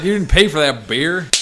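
mock angry Billy. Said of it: "It's like".

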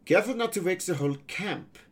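put-on high, quick, accented boy pirate. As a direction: chide them quickly as a young foreign pirate.

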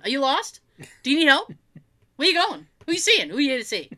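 high, rapid pushy questions; eager nurses. Retold or imitated. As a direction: pepper questions like busy nurses. Nurses crowding, quoted.

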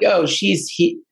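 a hint of fake spiritual drama; mock theatrical medium. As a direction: play a cheesy clairvoyant delivering the news. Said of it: "it wasn't like some".

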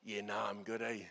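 casual, breezy yeah nah; polite brush-off. Retold or imitated. Moses politely brushing off God, easygoing. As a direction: wave it off lightly and politely. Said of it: "He politely turns to God and says".

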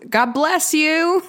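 high-pitched, drawn-out mock yell; imitated yell. Imitating a boy yelling at his sister after a sneeze, drawn-out mock yell. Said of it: "leans over and yells".

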